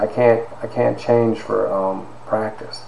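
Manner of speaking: soft, halting retold plea, close to tears; near tears. Student telling his teacher he can't change for practice, near tears. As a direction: quietly hold back tears while retelling. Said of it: "I'm ready to cry".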